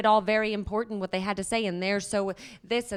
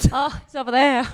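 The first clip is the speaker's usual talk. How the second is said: high, loud, put-on exclamation; mock dramatic voice; 5 semitones higher, 7 dB louder than usual. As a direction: play it up theatrically. Joking about husband overseas.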